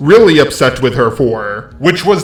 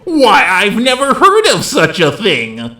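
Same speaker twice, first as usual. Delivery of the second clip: slow, sarcastic feigned shock; mock surprise; 5 semitones higher than usual. Creator mocking the accusers to viewers, with slow sarcastic mock surprise. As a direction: play it up as fake innocent disbelief. Sarcastic aside about lying commentators.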